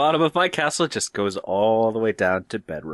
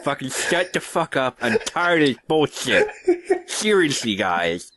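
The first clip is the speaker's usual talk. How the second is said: whiny, indignant lisp through laughter; lisping nerd voice; 4 semitones higher than usual. Acted. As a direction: defend yourself with a lateral lisp. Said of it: "give me the voice".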